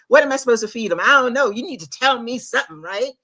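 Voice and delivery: venting at God at five in the morning, agitated and loud in bursts; agitated prayer to God. Retold or imitated. Sleepless mother confronting God in prayer, agitated pleading. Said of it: "I'm getting all agitated".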